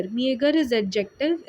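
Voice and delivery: slow, clear word announcement; slow announcing. Shown as a demonstration. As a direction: say it slowly for the class. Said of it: "teacher announces the word". (शब्द को धीरे धीरे बताना)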